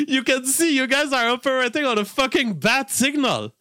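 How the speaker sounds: high-pitched, laugh-filled incredulity; amused, through laughter. Real, not acted. Mocking commentators over the bat signal, amused and high-pitched. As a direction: say it while still cracking up, voice riding high.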